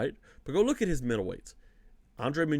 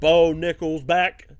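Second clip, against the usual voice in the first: announcer hype; 3 semitones higher, 9 dB louder, slower than usual. Acted. Announcing returning fighter.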